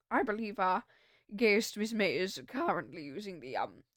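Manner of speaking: lightly voiced British bellboy, hesitant at the end; British accent. Bellboy politely explaining a guest's absence, British accent. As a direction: discreet British servant searching for a polite word. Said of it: "British accent for this guy".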